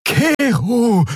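a small creature's high, pleading call; high pleading cry. A narrator's reading. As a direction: call his name in alarm. Nelen cries out to Kero. (hoher, flehender Ruf)

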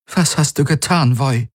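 horrified demand. A narrator's reading. Ylana confronts Voi, horrified.

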